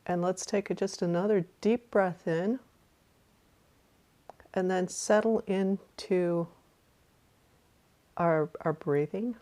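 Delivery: calm meditation guide with long pauses; guided meditation. Real, not acted. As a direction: guide listeners through a breath, unhurried.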